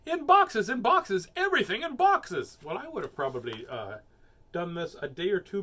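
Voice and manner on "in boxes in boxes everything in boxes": loud, high bossy yell; mother shouting orders, louder and higher. A narrator's reading. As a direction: bark orders like a frantic mom. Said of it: "her mother was yelling".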